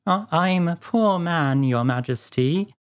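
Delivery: slow, trembling Hatter; nervous plea, sinking at the end. A narrator's reading. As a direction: plead tremulously with the King. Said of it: "began in a trembling voice".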